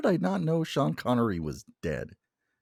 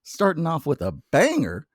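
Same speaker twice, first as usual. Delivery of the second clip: hyped welcome; 2 semitones higher, 6 dB louder than usual. Real, not acted.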